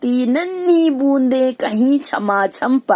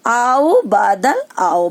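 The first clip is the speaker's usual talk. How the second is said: slow, drawn-out tender calling; loving call; much slower than usual. Acted. Earth lovingly calls the cloud to come, slow tender call. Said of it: "बड़े प्यार से धरती क्या कहती है".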